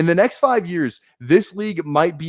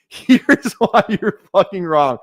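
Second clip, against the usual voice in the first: laughing retake; 2 semitones higher, 4 dB louder, slower than usual. Shown as a demonstration.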